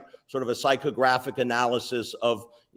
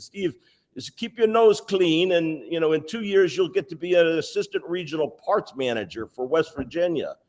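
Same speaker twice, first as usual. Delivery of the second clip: put-on a light German-accented warning to keep his nose clean; 3 semitones higher than usual. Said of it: "in his German accent".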